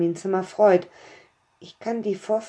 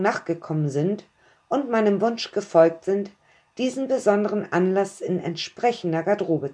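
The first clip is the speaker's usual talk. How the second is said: a hint of a grand master of ceremonies greeting the guests; a stranger's voice. Host welcoming guests to the castle, formal and stately. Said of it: "spricht eine fremde Stimme".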